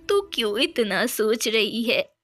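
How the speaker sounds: lightly voiced consoling granny; a hint of a kindly old mother; reassuring old mother. (हल्के से दिलासा देती बूढ़ी माँ)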